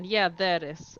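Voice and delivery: a light British presenter accent. Shown as a demonstration. Norwegian player showing friends her light British accent. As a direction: slip into a light Oxford-style British accent. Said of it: "get into my British accent".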